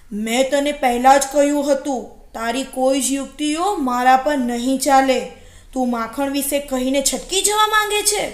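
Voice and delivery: loud, forceful wolf voice; storybook wolf laying down the law; stern, suspicious wolf. Acted. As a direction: refuse loudly, nobody's fool. Suspicious wolf refuses the jackal's trick.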